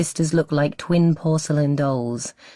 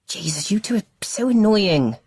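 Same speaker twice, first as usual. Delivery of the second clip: whispered grumble under his breath; muttered; 7 semitones higher than usual. A narrator's reading. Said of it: "Marcus mutters".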